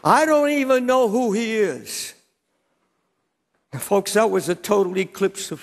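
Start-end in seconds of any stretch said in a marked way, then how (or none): 0.0-2.1 a contained, emphatic cry of denial; retold scream. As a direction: insist with a restrained raised voice. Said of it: "he screams and curses".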